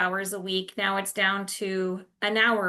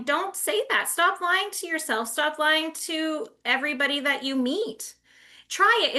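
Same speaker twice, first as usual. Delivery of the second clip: urgent plea; 4 semitones higher than usual. Real, not acted. Urging listeners to stop lying.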